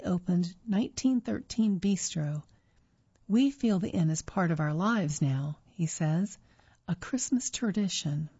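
measured, clearly phrased reading voice; article read-aloud. Real, not acted. Reader presenting a magazine article to listeners, measured read-aloud. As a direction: read it out evenly as prepared text.

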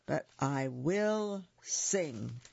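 slow, dark, dragged-out vow; a slow, grim promise; darker. Acted. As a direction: say it slowly like a song from the dark. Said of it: "I may sing a darker song".

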